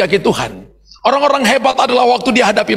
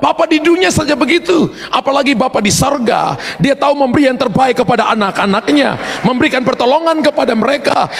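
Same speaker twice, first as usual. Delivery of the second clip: fervent preaching; 4 semitones higher than usual. Acted. Preaching climax.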